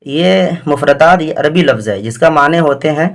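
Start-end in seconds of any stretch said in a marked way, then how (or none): 0.1-1.2 1 slow. Shown as a demonstration. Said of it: "یہ جو لفظ مفردات ہے".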